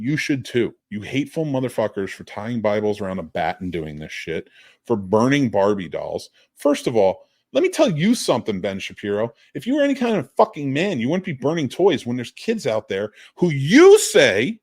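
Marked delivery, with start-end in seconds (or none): 6.6-14.5 anger building to real fury, swooping pitch. On a podcast, addressing someone directly and getting really mad. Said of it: "now I'm getting real mad".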